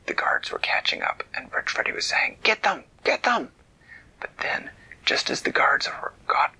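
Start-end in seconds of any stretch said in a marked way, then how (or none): 2.4-3.5 shouting. Acted. Villain yelling at guards.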